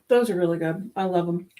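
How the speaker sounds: talking while chewing; mouth full. Real, not acted. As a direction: say it round a mouthful of food. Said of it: "Try not to talk with my mouth full".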